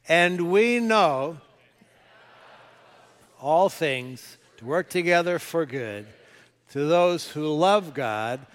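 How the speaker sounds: slow, measured group recitation of scripture; congregational reading aloud. Shown as a demonstration. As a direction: read it slowly, together with the church. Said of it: "read it out loud with me".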